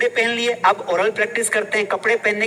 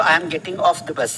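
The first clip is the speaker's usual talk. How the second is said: slow model; 4 semitones lower, much slower than usual. Shown as a demonstration. Teacher modelling sentence.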